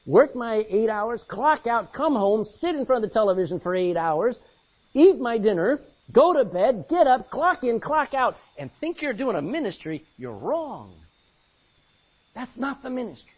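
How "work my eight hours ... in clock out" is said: loud sing-song rundown of a dull routine; loudly mocking the clock-in, clock-out life; mock bored worker. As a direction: rattle off the daily grind with scorn. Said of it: "if you don't step back and go".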